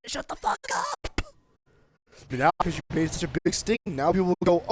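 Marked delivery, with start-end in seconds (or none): 0.1-1.2 high and slow, each word spaced out; slow angry command. Real, not acted. Vlogger orders politicians to stop, slow fury. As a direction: spell it out in fury.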